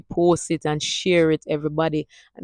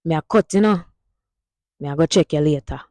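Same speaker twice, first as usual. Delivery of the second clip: Jamaican Patois sentence; faster than usual. Shown as a demonstration. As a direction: demo line in Jamaican Patois. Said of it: "Here is it in a sentence".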